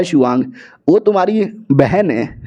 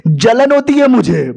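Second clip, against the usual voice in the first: pained complaint; 5 semitones higher than usual. Retold or imitated. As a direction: complain with a stretched, rising voice. Acted complaint about rough handling.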